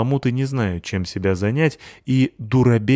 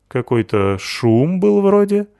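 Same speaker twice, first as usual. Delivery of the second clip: slow, higher, distracted question; absent-minded; 9 semitones higher, 5 dB louder, slower than usual. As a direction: ask as if barely noticing. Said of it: "рассеянно спросил Рыжопиус". (рассеянно, лениво)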